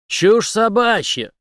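loud, high, slow contempt; Henry dismisses the accusation with scorn; scornful snort. Acted. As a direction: scoff it away. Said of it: "презрительно фыркнул Генри".

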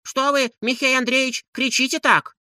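alarmed women peeking out; landlady and maid. A narrator's reading. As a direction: voice the startled housewives. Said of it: "сказали хозяйка и Анисья".

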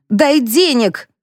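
a hammed-up brawler demanding cash; angry demand. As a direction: spit out each word as an order. Brawler demands money again.

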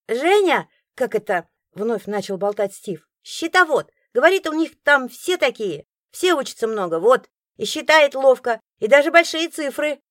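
put-on high, loud chattering boy; chattering child. A narrator's reading. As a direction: boast about her happily.

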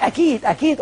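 a hint of a smug broker; cocksure promise. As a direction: sound overconfident like a broker. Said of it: "لو قال لك".

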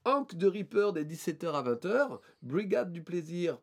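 put-on French names in an English accent. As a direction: read it with a mock English accent. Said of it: "Pourquoi je mets un accent anglais?".

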